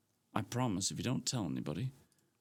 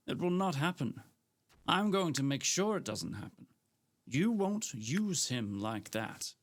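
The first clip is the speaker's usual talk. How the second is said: put-on pitched-up indignant young woman, slowing near the end; Gemma confronting Frank; 3 semitones higher than usual. Gemma to Frank, accusing him, raised and indignant. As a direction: she won't let him buy her off.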